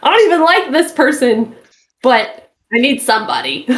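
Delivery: whiny desperate single. Pretend. Continues desperate single act.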